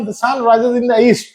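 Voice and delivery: very slow, every word spaced out; slow dictation. Shown as a demonstration. Teacher dictating an English example to students, very slow.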